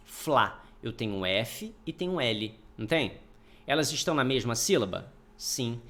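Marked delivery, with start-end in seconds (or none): 0.1-0.6 Flá set apart as one syllable, clearly separated; syllable split off. Shown as a demonstration. Teacher showing the class the syllable Flá. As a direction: say Flá alone and crisp to show the first syllable. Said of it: "Por exemplo, Flamengo".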